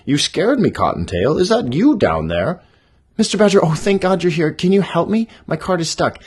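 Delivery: high, loud cartoon voices; animated characters. Badger and bunny talk on the road, high and loud. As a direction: play the animals big for kids.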